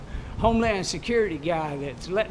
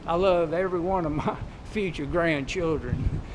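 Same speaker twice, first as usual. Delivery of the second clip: soft and loving; 4 dB quieter than usual. Real, not acted. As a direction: speak it gently with love. Soft loving declaration, slower.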